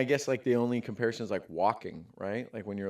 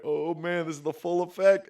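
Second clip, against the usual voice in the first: put-on kid's delight; 6 semitones higher, 4 dB louder than usual. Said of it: "And I'm like".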